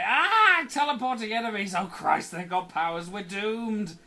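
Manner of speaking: high, loud hammed-up alarm; mock panic. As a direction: fake terror for laughs. Mock panic at enemy ambush.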